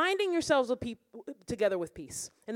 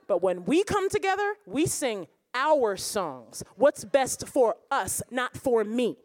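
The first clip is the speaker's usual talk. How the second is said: declaring congregation. Pretend. Church members vowing to stop worshipping apart, firm. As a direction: vow it like the whole church speaking. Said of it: "let us be the people that say".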